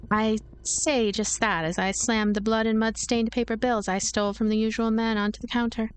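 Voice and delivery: ordinary delivery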